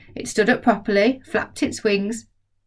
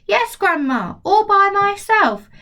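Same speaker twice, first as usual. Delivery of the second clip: put-on proud boy; 12 semitones higher, 4 dB louder, slower than usual. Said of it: "George answers proudly".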